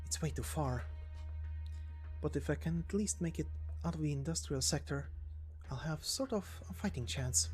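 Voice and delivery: quiet, even inner monologue; fugitive thinking aloud. Acted. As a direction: think it through under your breath. Character muses alone on escape route.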